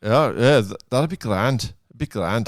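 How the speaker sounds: put-on light Irish accent on grand; a hint of Irish lilt, teasing. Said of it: "Irish accent".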